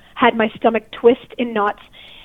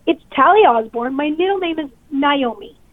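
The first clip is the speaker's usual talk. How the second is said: mildly defensive correction. Retold or imitated. Telling the officer her proper name, a touch defensive. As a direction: state your name guardedly. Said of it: "I'm talking like this, like I'm, I'm defensive".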